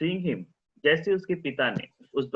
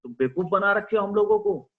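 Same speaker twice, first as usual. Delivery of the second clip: angry father; 3 semitones higher than usual. Acted. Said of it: "उसका father गुस्से में बोल रहा था".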